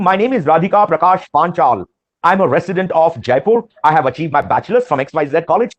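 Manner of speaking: clear, assured full introduction; confident answer. Shown as a demonstration. Trainer shows a candidate introducing themself properly, confidently. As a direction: state your name and background with assurance. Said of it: "talk about giving your introduction".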